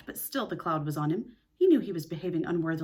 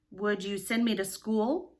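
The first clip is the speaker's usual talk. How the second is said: slow, sly questioning; crafty question; slower than usual. Acted. Peter to Missus Darling, crafty inquiry. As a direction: ask it slowly and craftily. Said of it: "he inquired craftily".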